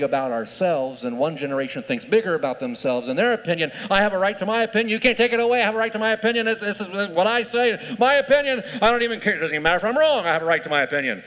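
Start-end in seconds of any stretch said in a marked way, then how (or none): 3.9-11.2 mock entitled insistence. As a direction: parody a stubborn know-it-all. Mocking an entitled generation's insistence.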